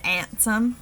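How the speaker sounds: "ansem" for handsome, h dropped, "ansem". Shown as a demonstration. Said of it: "where that H is dropped off".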